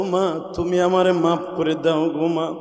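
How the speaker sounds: a son's slow sorrowful appeal to his mother; tearful plea. Retold or imitated. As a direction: stretch the words like a crying son. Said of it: "মার পা দুটো জড়াই ধরে বলে".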